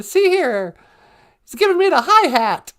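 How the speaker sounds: high, old-timey mock indignation; mock 1940s slang delivery; imitating wartime elders. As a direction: complain like a hammed-up old-timer. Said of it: "World War Two elders' way they talked".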